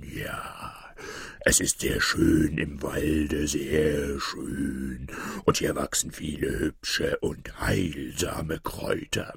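sly wolf coaxing, half-whispered in places; lightly voiced sly wolf tempting Little Red Riding Hood. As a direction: lure the little girl in with a sweet, hushed voice. Wolf sweet-talking the girl.

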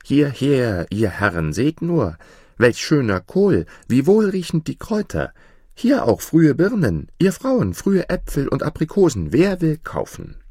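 put-on high, loud market cry of a boy; bright calling out. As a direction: call out to passing buyers, high and loud. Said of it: "rief mit heller Stimme".

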